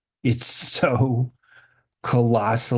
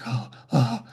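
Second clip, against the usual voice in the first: mock cold shock; 4 semitones higher than usual. Getting into cold water.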